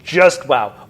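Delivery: amazed. Real, not acted. Stunned after a fast test ride.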